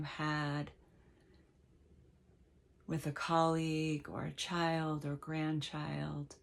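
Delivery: slow, unhurried meditation guide with long pauses; measured meditation voice, leaving space between phrases; guided meditation. Real, not acted. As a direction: gently lead listeners into letting go.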